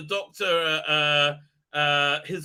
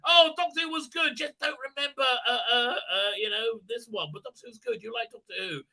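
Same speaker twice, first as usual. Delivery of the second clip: mock nostalgic fan; 6 semitones higher than usual. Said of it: "Member berries".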